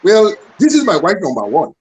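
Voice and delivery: put-on light West African accent, playful; imitating a West African accent. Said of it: "my best West African accent".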